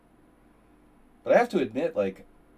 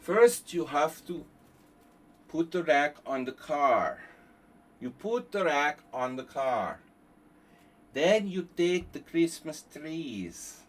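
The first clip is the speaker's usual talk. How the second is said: a hint of a know-it-all teacher, higher and louder; mock instructor voice; 4 semitones higher, 6 dB louder than usual. Streamer mocking tree-loading advice in a lightly voiced know-it-all tone. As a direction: lecture it like a pompous instructor.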